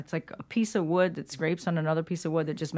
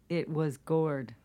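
whisper; much slower than usual. Acted. Punchline whispered.

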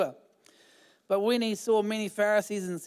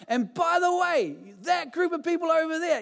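preacher's aside; 10 semitones higher than usual. Retold or imitated. Aside in John's voice.

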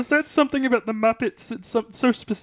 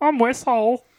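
plummy upper-class frog puppet voice; a frog puppet speaking like English gentry; posh Kermit voice. Pretend. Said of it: "practice my Posh Kermit".

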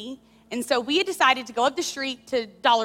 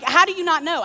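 frustrated; 5 semitones higher, 5 dB louder than usual. Retold or imitated. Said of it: "I'm so frustrated".

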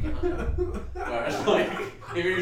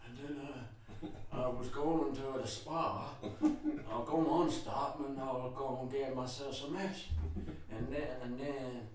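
put-on doddering old man; 7 dB quieter than usual. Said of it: "he's just like".

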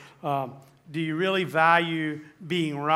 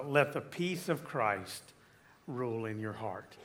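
soft scripture reading; 5 semitones lower, 6 dB quieter than usual. Acted. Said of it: "very last verse says".

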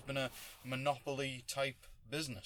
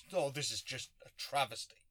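mock outraged critic. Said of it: "people come out".

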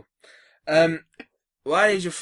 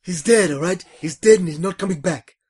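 deadpan, louder, tactless announcement; blunt bad news delivery; 3 semitones higher, 7 dB louder than usual. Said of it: "Please never deliver bad news to anyone".

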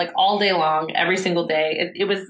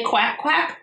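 put-on a bit higher, playful quack quack like a little kid; toddler duck noise; 6 semitones higher than usual. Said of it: "he'll say".

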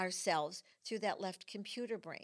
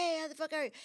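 brash, much higher New York street greeting; 8 semitones higher, 3 dB louder, much faster than usual. Retold or imitated. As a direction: toss it out like a New York driver. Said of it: "And they go".

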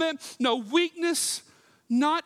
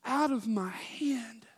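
slow whisper; 3 dB quieter, slower than usual. Acted. Ends quote hushed.

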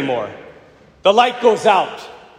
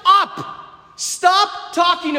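hammed-up authorities ordering silence; 11 semitones higher, much slower than usual. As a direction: bark it like a stern official silencing preachers. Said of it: "the authorities said".

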